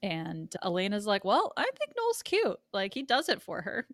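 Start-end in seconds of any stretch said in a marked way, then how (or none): 1.2-3.9 high gushing voice. Retold or imitated.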